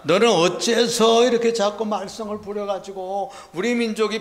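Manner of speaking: 높고 크게 시작해 끝으로 갈수록 잦아드는 원망; 언성 높여 따지다가 끝은 낮게 떨어뜨리기; 소리치며 불평. Acted. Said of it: "이렇게 소리칩니다". (불평 섞인 외침)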